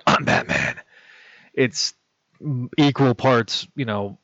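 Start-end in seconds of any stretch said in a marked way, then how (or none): 0.0-0.7 whispered, lightly imitated Batman line; a quick mock Batman whisper; hint of Batman. Mock quoting the famous Batman line in a whisper. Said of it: "whenever you, you hear".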